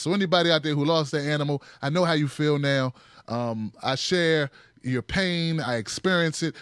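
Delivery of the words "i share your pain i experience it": slow and heartfelt. Shown as a demonstration. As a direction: stretch out "share" as if meaning it. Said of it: "Now I can say".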